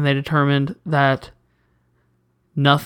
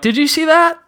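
high excited cop; 13 semitones higher, 3 dB louder than usual. Retold or imitated. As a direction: pitch it up like a shocked cop. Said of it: "And they're like".

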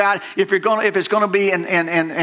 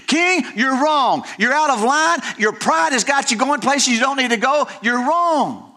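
confronting the king; 4 semitones higher than usual. Acted.

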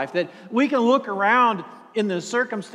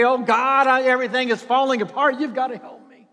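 raised, fast, pleading cry to God; frantic prayer, louder and higher; desperate plea; 4 semitones higher, 3 dB louder than usual. Acted. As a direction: beg God for help as everything falls apart.

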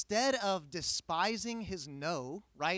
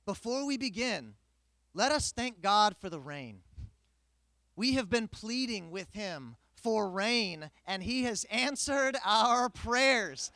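pastor's announcement; 3 semitones higher, 6 dB louder than usual. Retold or imitated. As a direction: proclaim it to the congregation. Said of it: "the pastor says".

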